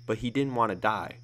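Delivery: ordinary delivery, nothing marked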